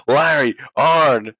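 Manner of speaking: slow, drawn-out mock call; echoing the call. Recalling the manager's call to his cohost, slow mock. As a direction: stretch the names out. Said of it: "when he said".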